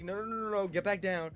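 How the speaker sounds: high, rapid-fire mock alarm; imitating mother's urgent order; urgent mom. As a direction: stop them quickly, as a worried mom. Voices mom urgently stopping him.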